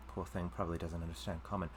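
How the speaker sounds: condescending aside. Acted. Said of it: "she goes".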